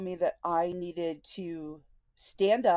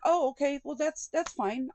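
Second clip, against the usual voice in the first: fake breezy okay; 6 semitones higher than usual. Feigning easy acceptance to therapist.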